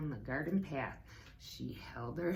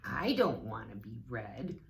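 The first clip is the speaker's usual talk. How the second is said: rooster voice; 6 semitones lower than usual. A narrator's reading. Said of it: "Mister Rooster said".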